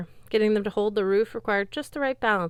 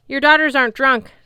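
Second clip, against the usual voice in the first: loud, high call across the hall; shout; 7 semitones higher, 11 dB louder than usual. A narrator's reading. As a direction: yell it over the chaos. Shouting to the giant.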